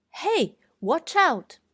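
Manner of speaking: loud, high, slow "Hey, watch out!"; warning shout. Shown as a demonstration. Teacher shows tone four with a shouted warning. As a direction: call out a sharp warning. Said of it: "same tone as tone four".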